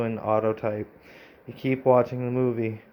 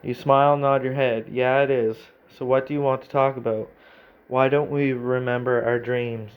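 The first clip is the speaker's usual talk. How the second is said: reading the story out, a touch brighter; steady storyteller read of the game text; story narration; 3 dB louder than usual. Acted. Streamer reading the AI story aloud, narrating.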